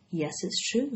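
soft weary sigh. A narrator's reading. Charlotte answering the rat, sighing. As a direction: let the breath out as you admit it. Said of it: "sighed Charlotte".

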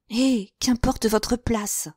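forced gaiety. Acted. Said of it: "affectant une gaieté bien loin".

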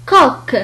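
"كوك" with k at both ends. Shown as a demonstration. Teacher modelling French Q for learners, k in "كوك". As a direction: say "كوك" crisply, both sounds like kaf. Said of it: "وهو ينطق مثل الكاف".

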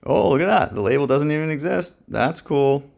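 suddenly impressed, pitch jumping up; pleasantly surprised. Real, not acted. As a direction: react like you just found something cool. New label appears in the app.

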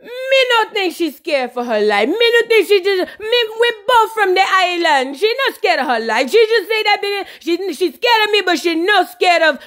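imitated Jamaican patois protest; indignant mock Jamaican accent; Spice. Spice argues Carly isn't scared, mock Jamaican indignation. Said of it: "And look at Spice".

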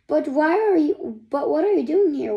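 quick, high startled question; surprised question. Acted. Boy surprised to find strangers, startled question.

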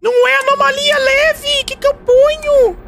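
very high, strained desperate cry; high-pitched gamer panic; panicked squeal. Real, not acted. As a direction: squeal it out in disbelief. Panicked squeal at failed report.

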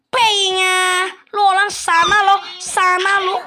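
hammed-up Chinese-Indonesian accent, high and loud; mock Chinese-Indonesian accent. Shooing the panda off in a mock Chinese-Indonesian accent. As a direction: play a pushy Chinese-Indonesian shopkeeper.

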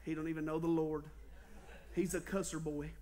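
low, hushed feigned concern; mock-pious. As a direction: drop suddenly soft and grave for the church ladies. Feigned piety to old ladies.

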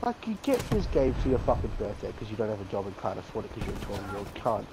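raging gamer. Real, not acted. Ranting at enemy player.

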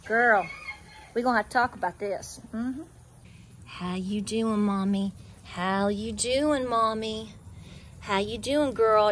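low, soft coo to a goat. Real, not acted. Owner softly soothing her goat in the pen, low and tender. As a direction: gently settle the nervous doe.

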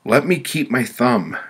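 high, loud begging; pleading. Acted. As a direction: bargain desperately with the judge. Victim begs the committee.

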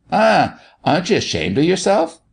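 high-pitched mock scolding; pretend rage. A narrator's reading. Doctor teasing Sammy about being ill, pretend rage. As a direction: scold in a show of outrage. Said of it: "pretending to be in a great rage".

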